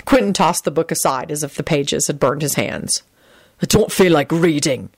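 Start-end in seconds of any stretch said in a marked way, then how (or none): 3.6-4.9 mildly curt; understated curtness; short reply. A narrator's reading. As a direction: answer shortly, with little fuss. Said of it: "he said shortly".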